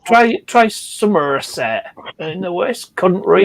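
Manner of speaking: slow West Country accent; Somerset accent. Shown as a demonstration. Friend corrects Wiltshire guess, slow Somerset accent.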